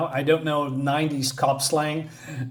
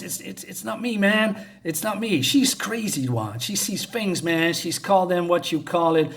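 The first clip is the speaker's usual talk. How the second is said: higher pleading voice of an accused husband; defensive husband; 4 semitones higher than usual. Acted. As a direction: insist it's not your fault, voice up. Husband defends himself to cops.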